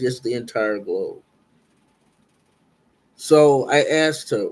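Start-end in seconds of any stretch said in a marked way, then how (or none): 0.0-1.2 calm confirmation. Retold or imitated. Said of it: "She says".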